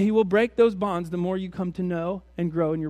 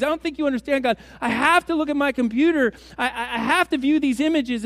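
higher, louder, hammed-up whiny excuses to God; mock pleading sinner; 4 semitones higher, 4 dB louder than usual.

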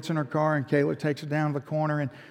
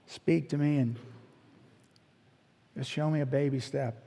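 humble prayer; 5 dB quieter than usual. Shown as a demonstration. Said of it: "wake up and say".

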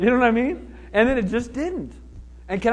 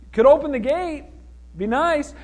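higher-pitched, hinting call through a gate; mock-impatient nudge to be let in; pointed plea to enter; 5 semitones higher than usual. Peter left outside the gate, pointedly pleading. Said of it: "Pete's out there going".

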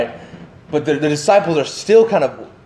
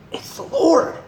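reserved John; 11 semitones higher, 4 dB quieter, slower than usual. Retold or imitated. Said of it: "John's always kind of reserved".

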